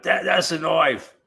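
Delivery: "knife" said as "noive" in a hammed-up Australian accent; mock Australian accent. Quoting Crocodile Dundee to viewers in a mock Australian accent. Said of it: "that's how Americans learn to speak Australian".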